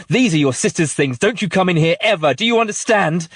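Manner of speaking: scolding building from a tight snarl to a high, loud yell; a mother screaming at her toddler, then exploding; furious shouting. Acted. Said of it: "shouting at her, scaring her".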